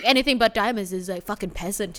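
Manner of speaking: a hint of a bro scoffing; dude voice. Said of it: "Is that your dude voice?".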